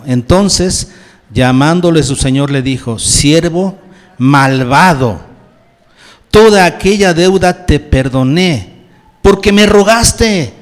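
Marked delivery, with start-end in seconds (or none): 3.0-10.5 master rebuking a wicked servant, louder and slowed; angry master. Acted. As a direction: let the angry lord's rebuke ring out, louder.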